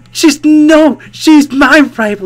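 loud, high dramatic gasp of realization; shocked gasp. Acted. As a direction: gasp as if betrayed in an anime.

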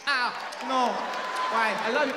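high, loud mock whimper; mock hurt guy. Stabbed husband begging his wife, high mock plea. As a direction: plead like you've been stabbed. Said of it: "they stab too".

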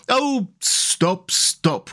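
high, overwhelmed delight; ecstatic cry. A narrator's reading. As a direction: cry out in rapture, then drop. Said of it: "cried the Mole in ecstasies".

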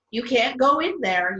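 a light storybook yell to stop her; read-aloud mock yell at the door; mild yell. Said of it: "yelled Peter".

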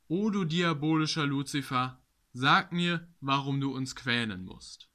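declaimed verse, somewhat lifted pitch on key lines; poem recitation. Acted. Poet reciting his Lucifer poem to viewers, declaimed verse. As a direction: recite it with rhythmic, emphatic phrasing.

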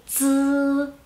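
"z" as a long level buzz, no i vowel; silent I. Shown as a demonstration. Teacher showing the mute I, "z" buzzed without an i. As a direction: sustain "z" like dz alone. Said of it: "Como la consonante sola".

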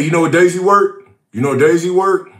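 ordinary delivery

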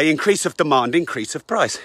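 out of breath from walking; winded while walking and talking. Real, not acted. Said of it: "Can't believe I'm out of breath".

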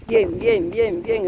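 high, sing-song praise for a good dog; high-pitched dog praise. Real, not acted.

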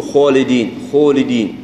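خالدين with the alif rounded toward waw, sounding like xoledin. Shown as a demonstration. Teacher shows the wrong rounded alif in خالدين. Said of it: "بشيء من صوت الواو".

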